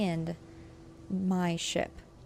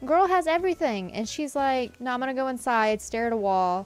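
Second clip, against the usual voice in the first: indignant rant; 3 semitones higher, 3 dB louder than usual. Acted. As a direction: stretch out Un-grateful in outrage. Scolding ungrateful villager.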